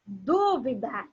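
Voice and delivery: Dúvida with a long, drawn-out DÚ; stress on DÚ. Shown as a demonstration. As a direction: stretch the first syllable of Dúvida slowly. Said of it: "a posição da palavra mais forte". (Dúvida com a sílaba DÚ forte e alongada)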